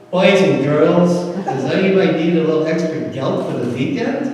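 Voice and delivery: a hint of a gentle old Jewish employer offering cash; sweet old Jewish man. Kind boss to his workers at the back of the store, a hint of a sweet old man. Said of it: "sounds like this really sweet old Jewish guy".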